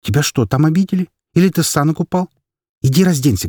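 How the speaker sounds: mother asking her crying son what happened; concerned mother. Acted. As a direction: press him for answers.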